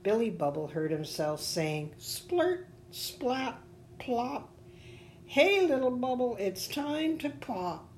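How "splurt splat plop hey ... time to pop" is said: high-pitched character voice; little bubble's taunt. A narrator's reading. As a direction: chant the sounds high and separately. Bubble echoes the taunts to himself.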